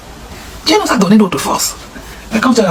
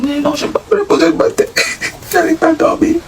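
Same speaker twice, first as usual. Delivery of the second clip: put-on high girlish reply; 11 semitones higher than usual. Voicing girl reply.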